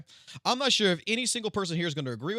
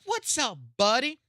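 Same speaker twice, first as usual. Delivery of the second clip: high, bright buddy-buddy voice, pitched way up; imitating a cheery pal; mock friendly greeting; 7 semitones higher, slower than usual. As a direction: play the chummy host welcoming him in. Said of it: "be like".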